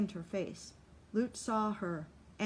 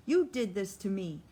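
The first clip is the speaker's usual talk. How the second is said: half scream; 5 dB louder than usual. Acted. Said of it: "he half screamed at Lute through the pain".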